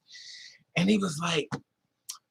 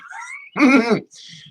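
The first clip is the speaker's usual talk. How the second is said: loud laugh; 9 semitones higher, 7 dB louder than usual. Real, not acted. Laughing at own story.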